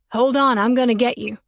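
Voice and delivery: put-on boy calling up the tree, unbothered; curious boy. Boy asking the girl up the tree, lightly voiced.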